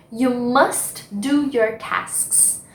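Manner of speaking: very slow, careful English; slow model phrase. Shown as a demonstration. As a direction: read the example slowly for students. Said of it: "Por exemplo". (frase bem devagar)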